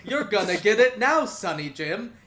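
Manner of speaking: loud, high-starting Scottish granny threat; thick Scottish accent. Acted. Grandmother threatening the barbarian, in a thick Scottish accent. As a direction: scold like a Scottish grandmother, loudly. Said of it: "thick Scottish accent".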